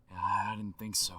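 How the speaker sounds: slangy aside in a phone message; Aaron Paul impression over the phone; voicemail effect. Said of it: "With the voicemail effect".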